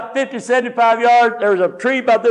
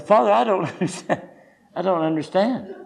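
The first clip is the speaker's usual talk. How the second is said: bewildered, laughing through the words; laughing plea; 5 dB quieter than usual. Retold or imitated. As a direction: plead while chuckling at the joke.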